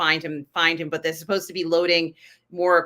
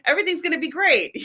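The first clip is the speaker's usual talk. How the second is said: Pollyanna-ish; 8 semitones higher, faster than usual. Retold or imitated. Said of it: "Pollyanna-ish about going out".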